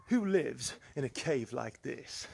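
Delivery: a lightly voiced, slow mock TV-presenter accent, drawn out; a poor, half-hearted stab at a famous presenter accent, slowed right down; slow, gently hammed-up presenter accent, only a hint of it; Lloyd Grossman accent. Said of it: "Poor Lloyd Grossman accent there".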